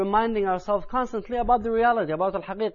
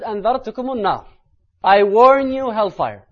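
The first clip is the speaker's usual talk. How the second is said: loud, high-pitched solemn warning; raised warning voice; 4 semitones higher, 9 dB louder, much faster than usual. Retold or imitated. Preacher quotes the Prophet warning the congregation of hellfire, raised warning voice. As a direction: cry the warning out from the pulpit. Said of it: "his voice was going louder and louder".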